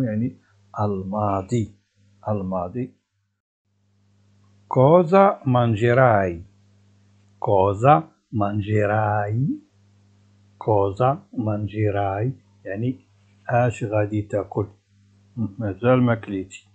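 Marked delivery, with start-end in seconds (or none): 4.7-12.3 slow, clear Italian question; drawn out for students; deliberate dictation pace; slow teaching model. Shown as a demonstration. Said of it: "teacher models slowly".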